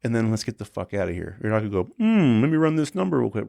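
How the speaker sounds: high, commanding orders to the band; high brash instructions; bossy tour manager. Retold or imitated. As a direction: boss everyone around the jet.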